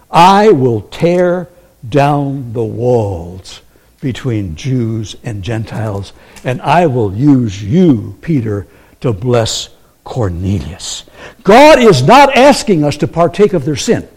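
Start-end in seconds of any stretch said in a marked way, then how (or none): 0.1-11.0 God promising. Retold or imitated. Preacher voices God's solemn promise to Peter, slow. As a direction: speak it slowly and low, like a vow. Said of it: "God is saying".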